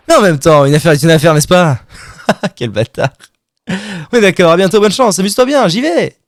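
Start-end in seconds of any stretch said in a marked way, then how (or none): 0.1-1.8 salesman voice. Acted. Salesman voice for the deal. 4.1-6.2 cheery salesman goodbye. Acted.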